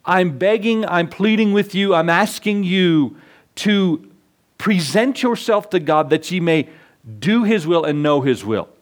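earnest pleading from the pulpit; pleading preacher. Acted. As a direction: beg the congregation to give themselves to God. Preacher's fervent appeal.

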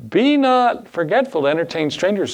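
a homeless man's exasperated comeback; frustrated retort. Retold or imitated. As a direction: throw the verse back at him in frustration. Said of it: "in his frustration".

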